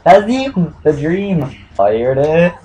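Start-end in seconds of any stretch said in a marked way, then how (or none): 0.1-1.4 excited yell. Real, not acted. Hoping for a player in pack.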